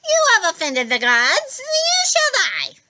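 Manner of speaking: high, loud monstrous Fury voice; a menacing monster pronouncing doom; Fury threat. A narrator's reading. Fury pronounces doom on Percy, high and menacing.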